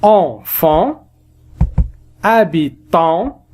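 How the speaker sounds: Enfant, habitant, stretched, final an nasal; slow nasal demo. Shown as a demonstration. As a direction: drag out each nasal an. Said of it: "et aussi A N".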